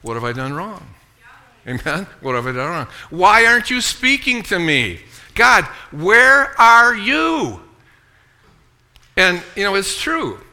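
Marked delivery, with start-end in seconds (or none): 0.0-7.6 anxious prayer. Retold or imitated. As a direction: voice the doubting believer, then plead. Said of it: "so you go".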